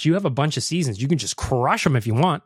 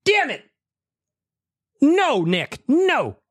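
much higher, cries of frustration; exasperated outburst; 10 semitones higher, much slower than usual. Real, not acted. Host reacting to the prank clip, a high, frustrated outburst. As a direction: groan it out like you got pranked again.

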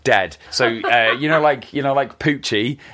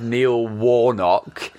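odd name delivery; much slower than usual. Real, not acted. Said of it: "I don't know why I said his name like that".

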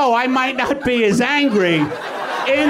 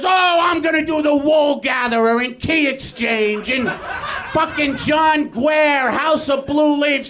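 mock theater actor; 3 semitones higher than usual. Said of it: "one of those New York theater actors".

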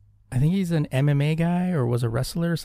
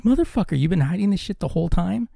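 higher-pitched mock outrage at his brother; excited outburst; 7 semitones higher than usual. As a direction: pretend indignation, pitched up. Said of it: "And I was like".

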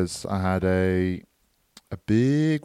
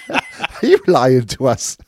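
mock squeaky teasing; 12 semitones higher, 4 dB louder, faster than usual. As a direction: needle him in a high squeaky voice. Retold teasing, very high voice.

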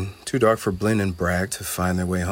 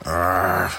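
scowling growl; 4 dB louder than usual. A narrator's reading. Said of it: "Bragg just scowled".

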